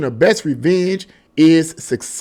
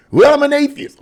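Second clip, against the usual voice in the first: higher, louder mock skeptic voice; voicing an imagined atheist butting in; mock objector; 9 semitones higher, 3 dB louder than usual. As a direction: toss it off like a smug doubter. Imagined listener objecting to the speaker.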